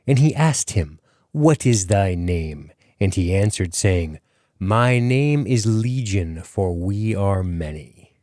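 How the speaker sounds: slow, measured Bible reading; drawn-out, portentous recitation; solemn scripture reading. Acted. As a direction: intone the verse slowly and deliberately. Opens show reading scripture.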